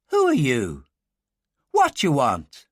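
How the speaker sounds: put-on sharp young Irish girl challenging a stranger; Irish farm girl. Girl with a shotgun challenging a stranger, Irish accent. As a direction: demand it from the doorway, wary.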